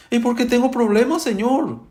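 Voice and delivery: high-pitched mock plea of a crying woman; imitated tearful complaint. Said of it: "Esa hermana ayer estaba llorando".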